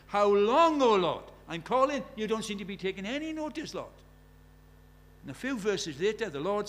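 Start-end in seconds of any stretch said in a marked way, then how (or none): 0.1-3.9 loud, anguished plea; desperate. Acted. Desperate prophet calling on the Lord, loud. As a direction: beg God to finally listen. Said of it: "Here's a man who's desperate".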